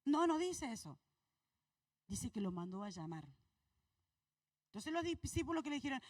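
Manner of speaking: usual speaking voice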